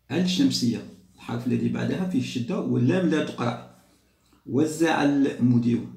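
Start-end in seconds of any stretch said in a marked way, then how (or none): 4.5-5.9 slow "المدير" with a clear l before the m; lam pronounced. Shown as a demonstration. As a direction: sound the l in "وزع المدير", stretched out. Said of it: "هنا اللام تقرأ".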